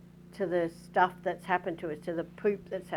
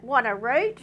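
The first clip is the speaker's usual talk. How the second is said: louder, higher parrot call; squawking cockatoo; 5 semitones higher, 6 dB louder than usual. Retold or imitated. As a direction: yell it out like the cocky. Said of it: "until it yells out".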